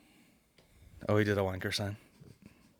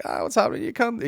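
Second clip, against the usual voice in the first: higher-pitched matey greeting; friendly banter; 14 semitones higher, 3 dB louder than usual. Acted. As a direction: greet a mate with affectionate swearing. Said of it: "it's friendly".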